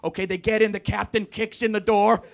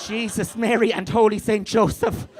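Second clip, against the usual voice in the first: lightly voiced Irish Catholic mother; mock Irish mum; Irish mother accent; 4 dB louder than usual. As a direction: exclaim it with an Irish lilt. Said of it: "I have an Irish Catholic mother".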